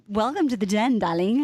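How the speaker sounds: put-on British "darling" welcome; lightly hammed-up British hostess; British accent. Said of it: "speak in an accent too".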